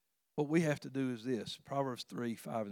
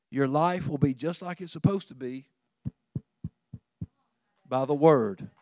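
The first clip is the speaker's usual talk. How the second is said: raised, louder preaching voice; emphatic preaching; 4 semitones higher, 6 dB louder than usual. Real, not acted. Preacher urging congregation to act on God's word, emphatic preaching. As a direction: drive the exhortation home with punched words.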